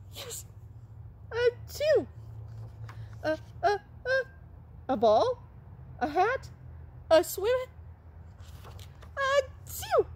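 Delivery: high squeaky voice building up to a sneeze; high puppet voice. Pretend. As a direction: squeak out each halting syllable before the sneeze.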